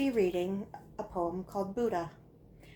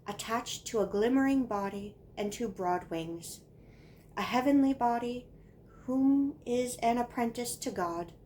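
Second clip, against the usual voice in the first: put-on measured, deliberate recitation of a child's poem; poem reading. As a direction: draw out key words, pause after each line. Reads childhood poem aloud.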